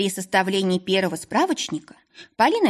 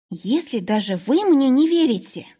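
high, louder, wounded cry; anguished cry; 5 semitones higher, 3 dB louder than usual. A narrator's reading. Polina cries out to the owner, anguished. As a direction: cry out like a shot bird. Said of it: "вскрикнула, как подстреленная птица".

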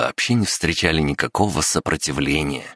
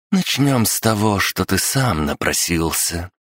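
put-on sharp young woman; 4 semitones higher than usual. Seventh voiced by narrator.

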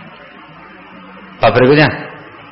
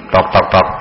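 low, restrained "tok, tok, tok"; polite soft knocking; 9 semitones lower, 4 dB quieter than usual. Shown as a demonstration. Teacher showing students how to knock at a house, soft knocking. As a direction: imitate a gentle knock on a door. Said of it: "tidak disuarakan dengan keras gitu".

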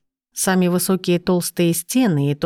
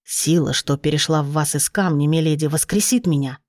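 put-on lower, steady old gnome; 3 semitones lower than usual. Narrator voices the gnome.

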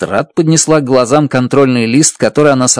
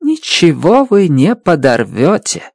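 calm; 5 semitones higher than usual. Acted. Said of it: "спокойно возразила она".

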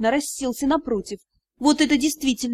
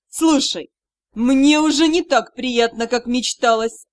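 disappointed mentor; 4 dB louder than usual. Acted. Magister loses the fun.

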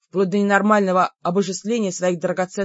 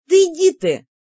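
a sharp, high, loud "get lost"; exasperated outburst; 9 semitones higher, 6 dB louder than usual. A narrator's reading. Sister snapping at her clumsy brother: high, loud exasperation. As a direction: throw it at him, fed up.

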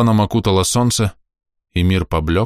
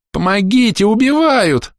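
very high, loud terrified wail; woman wailing for help under attack; 4 dB louder than usual. A narrator's reading. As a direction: scream for help as she's attacked. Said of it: "заголосила та".

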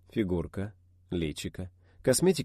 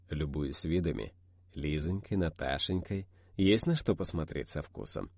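velvety tone; 3 semitones lower than usual. Acted. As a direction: lightly purr it, slowly. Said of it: "я добавил тону бархатистости".

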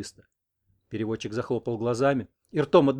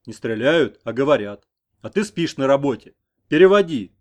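scolding; 9 dB louder than usual. A narrator's reading. Headman scolds interpreter.

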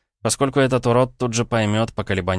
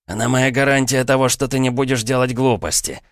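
higher, louder retort; snapping back; 6 semitones higher, 3 dB louder than usual. Acted. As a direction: bite back at him. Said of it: "огрызнулся тот".

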